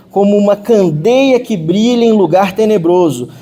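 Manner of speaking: slow, solemn reading of the verse; scripture reading. Acted. Preacher reading Second Peter to the church, slow and solemn. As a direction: read it out slowly, weighing each phrase. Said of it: "Vou ler aqui, ó".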